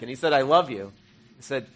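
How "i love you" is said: louder, steady retold answer of God; a patient, louder divine reassurance; firmer loving reply. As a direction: repeat it with gentle firmness.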